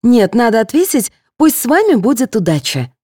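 lightly voiced nurse; correcting nurse. A narrator's reading. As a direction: insist on the right reply.

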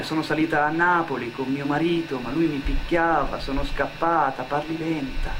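ordinary talk

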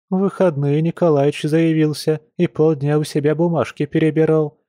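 chatty village shopgirl, complaining; a lightly voiced gossipy friend; lively young woman. Olya's character voice, gossip.

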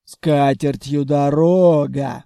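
loud, slow rough send-off; gruff grumble. A narrator's reading. Khalya shows buyers the door, loud gruff grumble. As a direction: grunt it rudely like a troll. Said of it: "буркнула Халя".

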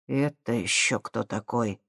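low, soft, slow and sour; spiteful question. A narrator's reading. Komissarov eyeing the stranger, low and spiteful. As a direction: ask it with quiet spite. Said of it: "злобно осведомился Комиссаров".

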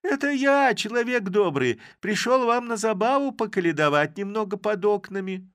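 high, loud put-on caroler voice; disguised voice. A narrator's reading. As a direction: pitch the voice way up to hide who you are. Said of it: "переменив голос".

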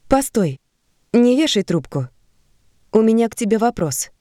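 громче и выше, чтобы удержать; окликни, пока не повесили; громко. Acted. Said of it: "Марта громко сказала". (громко, чуть выше)

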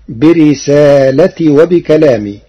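برسالتي said with no long a after the lam; singular form. Shown as a demonstration. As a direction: say برسالتي short, risalati. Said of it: "بحذف الألف بعد اللام". (برسالتي على الإفراد)

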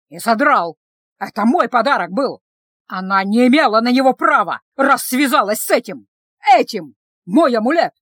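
loud defiant retort; accused man shouting back at the sister. Acted.

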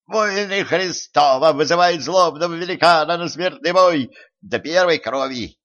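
high-pitched tiny herald; hurried squeak. A narrator's reading. Tiny knight challenging a giant to combat, hurried squeaking. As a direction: squeak out the formal challenge in haste. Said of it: "торопливо пропищал выборной".

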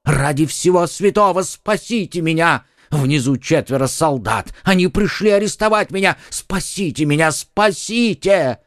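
high-pitched pleading cries; panicked wail. A narrator's reading. Haberdasher fleeing arrest begs the musketeers, wailing. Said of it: "взвопил он".

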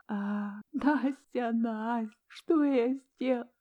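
high, rising into a cry; anguished crying; sobbing. A narrator's reading. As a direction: break down sobbing. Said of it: "рыдая".

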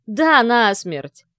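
a loud, very slow outburst; he snaps and blurts it all out; breaking out. A narrator's reading. Kirill finally breaks and yells the truth at his father. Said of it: "сорвался в ответ Кирилл".

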